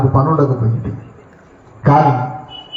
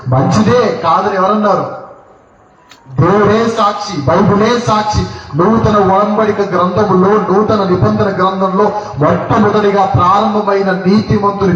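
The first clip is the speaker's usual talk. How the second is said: higher-pitched, sustained sermon delivery; insistent preaching; 5 semitones higher than usual. Real, not acted. Preacher drives home Joseph's righteousness to the congregation, insistent preaching. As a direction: press the point home, repeating with conviction.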